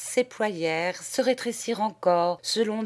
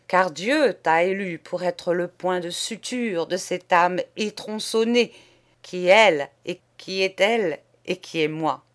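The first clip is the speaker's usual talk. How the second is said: loud, grand pronouncement; solemn ultimatum; 2 semitones higher, 5 dB louder than usual. Acted. Poet giving the painter an ultimatum, loud and solemn. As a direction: lay down the terms.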